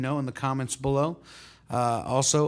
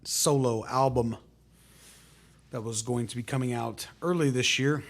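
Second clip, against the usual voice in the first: put-on terrible French accent; 2 semitones higher, 5 dB louder than usual. Host welcoming viewers to Quarantunes in a terrible French accent. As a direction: play a bad French show host inviting everyone in. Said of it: "That was my terrible French accent".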